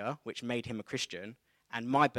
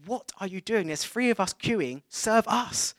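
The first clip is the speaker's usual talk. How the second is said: impatient thought; 8 semitones higher, 6 dB louder, slower than usual. Retold or imitated. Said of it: "And I think".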